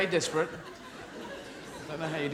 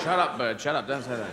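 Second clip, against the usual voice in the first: irritated; 6 semitones lower than usual. Acted. Owner scolding the parrot.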